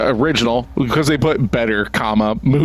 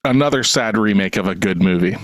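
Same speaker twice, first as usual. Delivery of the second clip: reading a hated review aloud; 2 semitones lower than usual. Acted. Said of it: "I'm gonna say so much in this that I don't believe".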